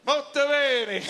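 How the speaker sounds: high, loud triumphant molto bene; loud punchline. Retold or imitated. Comedian to crowd, finally saying molto bene, loud and high. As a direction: land the punchline big.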